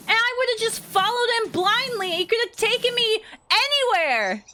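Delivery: incredulous outrage. Real, not acted. Adult telling host how she could have been kidnapped, high incredulous outrage. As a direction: disbelief rising in the voice.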